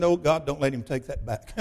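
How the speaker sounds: low, softened aside prayer; under the breath. Retold or imitated. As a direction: retell a private plea, voice dropped. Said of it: "I no more said that under my breath".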